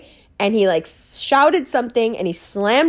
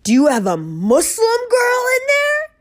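shouting guy. Retold or imitated. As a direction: yell it like an angry stranger on the street. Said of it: "the guy went".

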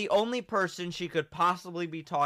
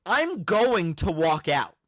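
threat; 5 dB louder, slower than usual. Retold or imitated. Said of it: "And she goes".

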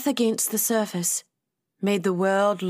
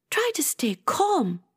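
high-pitched, gentle character voice; soothing; 7 semitones higher than usual. A narrator's reading. Rosie trying to settle upset Atia, soothing. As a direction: soothe her without raising volume. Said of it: "Rosie soothed".

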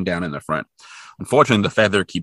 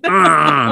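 mummy growl; 6 semitones higher, 5 dB louder than usual. Retold or imitated. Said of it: "He's like".

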